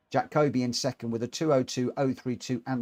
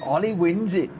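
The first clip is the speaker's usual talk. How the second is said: high, loud shout of the winner; excited finish call; 5 semitones higher, 5 dB louder than usual. Real, not acted. Streamer calling the race finish, excited shout.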